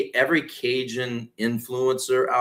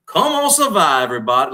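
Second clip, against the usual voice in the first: much higher and louder, a rallying cry; yell at the camera; 5 semitones higher, 5 dB louder than usual. Shown as a demonstration. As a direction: shout it straight into the lens. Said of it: "Like, yell at the camera".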